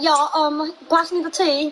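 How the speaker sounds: light put-on British accent; mock British accent. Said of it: "talk to her in a British accent".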